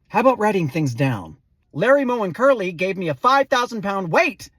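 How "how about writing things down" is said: deadpan. Acted. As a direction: cut through the chatter, deadpan. Dry retort to fast talker.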